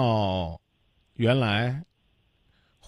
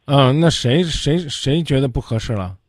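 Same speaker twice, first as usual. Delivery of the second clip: 提高嗓门急问是谁; 猛地大声打断追问; 大声追问; 8 dB louder than usual. Real, not acted. 主持人大声追问是谁. (嗓门一下提高，追问是谁)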